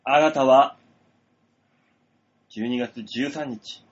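fortune teller voice. Acted. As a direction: reveal it like a mystic seer. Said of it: "何この寸劇".

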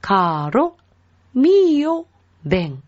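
"カロ、 ミオ、 ベン" word by word, R tapped once; single-flick R. Shown as a demonstration. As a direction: say "カロ" with just one tongue tap, pausing between words. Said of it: "一回しか巻きません".

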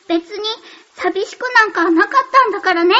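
tsundere denial, pouting; huffy flustered denial. Acted. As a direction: insist you weren't lonely, a bit huffy. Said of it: "寂しくなんかなかったんだからねって寂しかったよね".

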